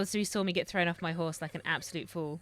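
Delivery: ordinary talk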